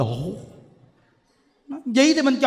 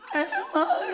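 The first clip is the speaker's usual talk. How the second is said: much higher squeaky mock singer call, laughing; slower than usual. Monk to audience, mocking a tired singer in high voice. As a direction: lampoon a worn-out singer, giggling.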